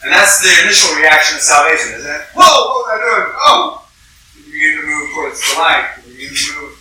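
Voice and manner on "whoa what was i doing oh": louder, rising higher to a cry of "Oh!"; shocked at what you were doing; startled awakening. Retold or imitated. Preacher voicing a sinner's first reaction to salvation.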